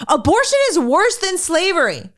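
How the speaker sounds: a hint of suppressed giggles; mock reading, stifling laughter. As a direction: read it out while trying not to laugh. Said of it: "I can't even say it with a straight face".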